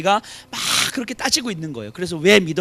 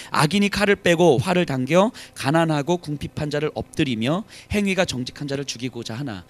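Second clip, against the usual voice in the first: scripture reading; 2 semitones lower than usual. Shown as a demonstration. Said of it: "보세요".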